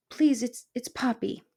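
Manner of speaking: high, halting little voice; pleading mouse. Acted. Mouse correcting her name to the porcupine, high plea. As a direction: meekly trip over the correction.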